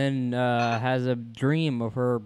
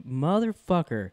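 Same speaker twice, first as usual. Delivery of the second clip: drawn-out catchphrase; 3 semitones higher, slower than usual. Retold or imitated. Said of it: "he's like".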